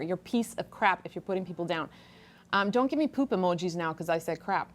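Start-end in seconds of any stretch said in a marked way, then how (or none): 0.0-1.9 low and soft repeat; quieter second take. Shown as a demonstration. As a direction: say it again quietly, pitch down. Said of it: "How's that for a truth bomb".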